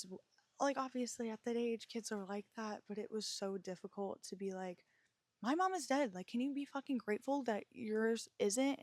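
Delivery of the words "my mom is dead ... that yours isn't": retold angry outburst. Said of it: "I would get so angry".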